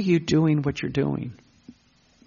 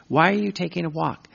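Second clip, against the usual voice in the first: asking voice; 4 semitones higher, faster than usual. Acted. Acted question and answer.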